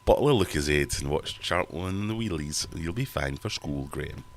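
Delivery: put-on a light, weak Newcastle accent as mum. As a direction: mum in a half-hearted Geordie voice. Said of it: "That was my attempt at a Newcastle accent".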